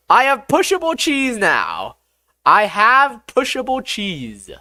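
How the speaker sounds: high-pitched excited proclaiming; gleeful announcement. Real, not acted. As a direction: crow it proudly, pitched high. Proudly announces pushable cheese.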